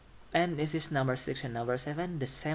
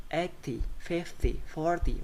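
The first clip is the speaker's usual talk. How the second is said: EIGHty, FIFty, FORty; stress on first syllable; 3 semitones higher than usual. Shown as a demonstration. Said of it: "but on the first syllable".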